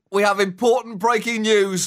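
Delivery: breaking news urgency; urgent anchor voice; urgent announcement. Acted. Mock urgent news interruption.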